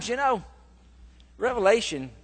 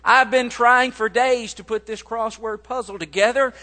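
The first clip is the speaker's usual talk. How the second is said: a lightly voiced exasperated old mother, a bit louder; frantic mom; 4 semitones higher, 4 dB louder than usual. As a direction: play the mother at her wit's end. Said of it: "she just at the point of tears".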